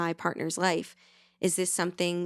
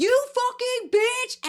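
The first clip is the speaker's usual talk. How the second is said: very high, loud, playful joking shout; 6 dB louder than usual. Retelling a partner yelling in a joking way: imitating a joking shout. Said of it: "shout at me like that".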